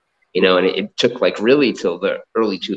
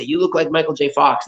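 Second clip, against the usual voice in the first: higher, amused mock local voice; imitating Japanese locals; 7 semitones higher than usual. Japanese people teasing the young-looking American, higher amused mock voice. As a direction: pitch it up like a tickled local teasing a foreigner. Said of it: "And then they'd say".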